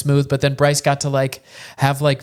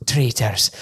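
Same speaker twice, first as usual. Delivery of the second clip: a Scottish rolled Traitors; Scottish accent; 3 semitones lower than usual. Retold or imitated. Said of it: "which is fully Scottish".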